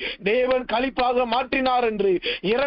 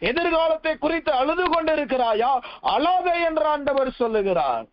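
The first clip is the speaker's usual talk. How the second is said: raised, driving run of sermon questions; fervent preaching; 4 semitones higher than usual. Real, not acted. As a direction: press the congregation with question upon question. (உருக்கமாக அடுக்கடுக்காகக் கேட்கும் பிரசங்கம்)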